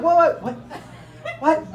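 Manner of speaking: high, laughing what what what; mock disbelief. Comic disbelief at lyric.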